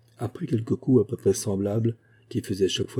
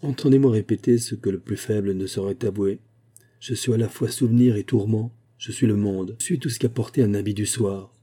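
recited verse. Acted. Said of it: "récita les vers suivants".

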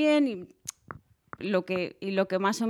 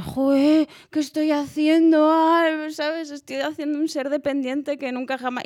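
higher, louder alarmed self-talk; mock alarm; 6 semitones higher, 3 dB louder than usual. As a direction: panic a bit at your own mistake. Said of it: "y dices".

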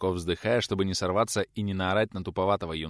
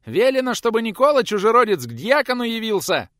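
squeaky yell; 14 semitones higher, 10 dB louder than usual. A narrator's reading. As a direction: shout it from the yard. Youth yelling from yard.

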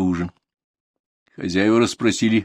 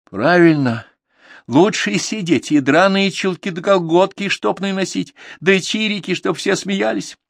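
bitter retort; 11 semitones higher than usual. Acted.

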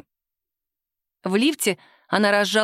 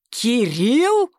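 terrible voice; 2 semitones higher than usual. Acted. Boss learns Sima knows the owner, in a terrible voice. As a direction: repeat the name in disbelief and menace. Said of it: "страшным голосом переспросил".

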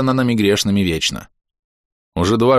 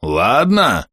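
insistent ладно. Acted. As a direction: lean in and press Ладно? as a demand. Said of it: "нагнулся и заглянул мне в глаза".

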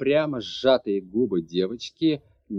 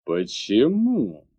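barked; 2 semitones lower, much slower than usual. A narrator's reading. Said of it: "рявкнул владыка".

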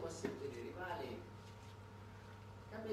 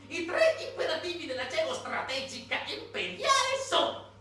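pompous declaiming quote; 8 semitones higher, 6 dB louder than usual. Retold or imitated. Mocking the strategist's doctrine to the audience, loud pompous proclamation. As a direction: thunder the imperial doctrine like an orator. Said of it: "Quel Zelensky semplifica così".

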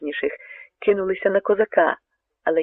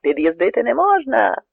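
much higher, loud halt command; guards shouting; 7 semitones higher, 3 dB louder than usual. A narrator's reading. Guard soldiers warning the Cossack off, shouting. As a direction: bark the order to stop. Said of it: "закричали вартові жовніри".

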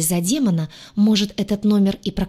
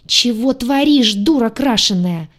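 loud, slow, higher snap at the attacker; angry rebuke; 3 semitones higher, 5 dB louder than usual. Acted. Heroine lunges at the redhead, shouting angrily. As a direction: scold her hard and loud.

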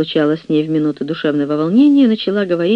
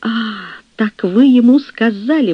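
defiant outburst; 6 semitones higher than usual. Acted. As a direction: throw it back at her in revolt. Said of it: "воскликнула Мария, внезапно взбунтовавшись".

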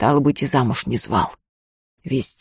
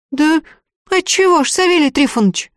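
a much higher, pleading, tearful voice; near tears; 12 semitones higher than usual. A narrator's reading. The girl begs the sorcerer, near tears. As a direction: ask as if about to cry. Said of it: "чуть не плача спросила".

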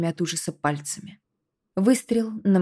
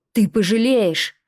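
louder, slow, higher snarl; snarling threat; 4 semitones higher, 4 dB louder than usual. Acted. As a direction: spit the threat like a beast. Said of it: "Филипп зарычал, словно зверь". (рычит с угрозой, как зверь)

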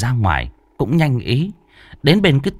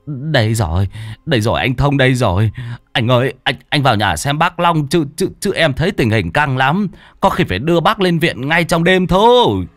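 stammering lame man; 4 semitones higher than usual. Acted. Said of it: "thằng Toàn Thọt lắp bắp".

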